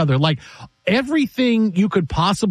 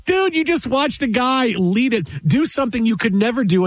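higher-pitched, exasperated talking-to; imagined telling-off, pitched up; mock incredulous rebuke; 5 semitones higher than usual. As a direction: scold him in playful disbelief. Mock rebuke of Draymond Green while watching.

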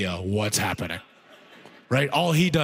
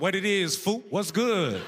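infatuated mimic; 5 semitones higher than usual. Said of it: "That was me with these black guys".

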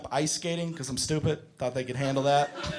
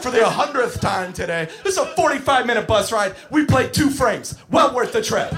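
raised, worked-up sarcastic voice; sarcastic exasperated rant; 4 semitones higher, 4 dB louder than usual. Retold or imitated. Fed-up counselor on a wasted bowling trip, sarcastic yelling. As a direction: rant with bitter mock congratulation.

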